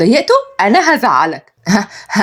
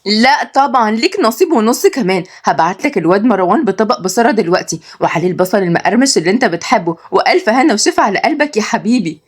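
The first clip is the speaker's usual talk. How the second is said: sweet daughter voice; 3 semitones higher than usual. Acted. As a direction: greet dad lovingly, pitched up. Somaya insists.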